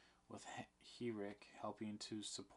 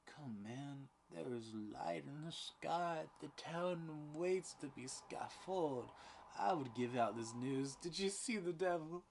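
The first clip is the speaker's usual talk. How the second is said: rising, louder insistence; pressing demand; 6 semitones higher, 4 dB louder than usual. A narrator's reading. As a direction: push him hard for the answer. Danforth pressing for confession.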